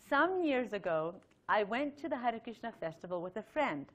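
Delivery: measured reading aloud; carefully enunciated letter read to listeners. Acted.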